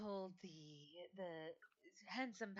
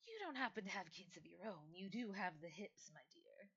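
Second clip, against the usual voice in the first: put-on old lady; 5 dB quieter than usual. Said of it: "she looks to her and goes".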